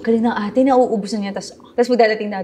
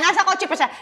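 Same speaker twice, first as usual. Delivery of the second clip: ordinary talk, nothing marked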